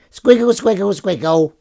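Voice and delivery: high sing-song pet voice; cooing at cat. Real, not acted. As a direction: coo it to the cat.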